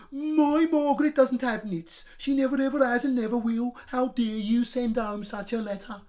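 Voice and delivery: high, loud indignant shriek; shrieking mother. A narrator's reading. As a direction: shriek in outrage at the school. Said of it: "shrieked Moogie Margaret's mother".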